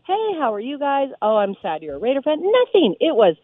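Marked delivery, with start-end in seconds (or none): 0.0-2.4 mock friendly welcome. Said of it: "not even like".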